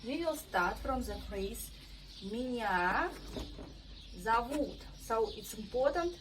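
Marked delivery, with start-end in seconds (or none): 2.3-4.8 Меня зовут with the stress on the last syllable of зовут. Shown as a demonstration. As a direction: lean on -вут in зовут. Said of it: "pay attention on stress".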